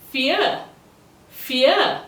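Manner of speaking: Vier as "fee-uh", rising high; like English fear without a hard R; softened R. Shown as a demonstration. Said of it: "but soften the R".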